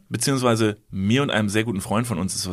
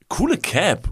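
quoting the stranger; 7 semitones higher, slower than usual. Retold or imitated. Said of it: "Und dann hat er gesagt".

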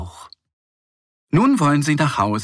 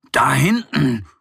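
calling out; 3 semitones higher, 4 dB louder than usual. Acted. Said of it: "ruft er".

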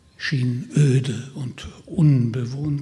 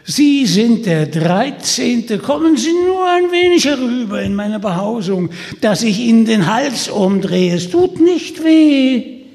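devilish voice; 8 semitones higher, 9 dB louder than usual. Acted. Devilish double threatens.

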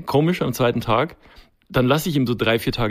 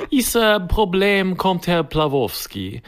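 higher, slow put-on Czech-Silesian accent; mock Eastern European accent; 5 semitones higher, slower than usual. Imitating the handyman Plawowski in a Czech-Silesian accent. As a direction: drag the words in a heavy Eastern European accent. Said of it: "Herr Plawowski redet immer so".

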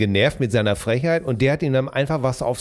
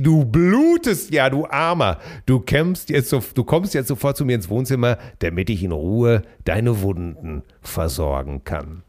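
worried woman. Acted. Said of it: "außer sich vor Sorge rief sie".

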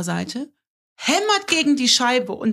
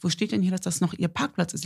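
calm; 3 semitones lower, 7 dB quieter than usual. Retold or imitated. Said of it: "immer noch ganz ruhig geblieben".

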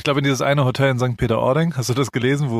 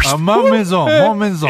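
dramatic wail; 7 semitones higher, 7 dB louder than usual. Pretend. Dramatic lament over burned house.

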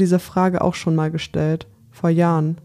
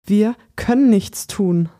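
higher and slow, close to hysteria; a touch of panic, pitched up and dragged out; nearly hysterical, higher and slowed; almost hysterical; 4 semitones higher, slower than usual. Acted. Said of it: "beinahe hysterisch".

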